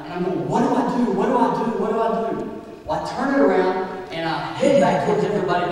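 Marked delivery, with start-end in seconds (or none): 0.5-2.6 mock panic, boy losing control; freaking out. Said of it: "I'm freaking out".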